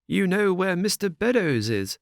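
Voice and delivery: a hint of alarm in the old squire; anxious old squire.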